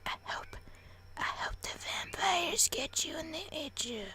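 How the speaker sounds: soft, hammed-up whispered rant; hushed, bitter mock cursing; resentful whisper. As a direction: whisper insults under your breath. Whispered resentful aside to parents.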